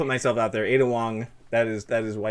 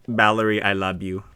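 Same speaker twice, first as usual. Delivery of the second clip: lightly put-on Filipino accent, a bit low; 4 semitones lower than usual. Brother talking to his younger sister, light Filipino accent. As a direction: tease affectionately in a Filipino accent. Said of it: "so I'd be like".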